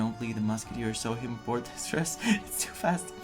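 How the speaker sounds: ordinary delivery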